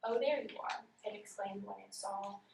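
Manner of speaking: reads the story with no expression; deadpan, unexpressive reading. Shown as a demonstration. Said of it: "I was reading with no expression".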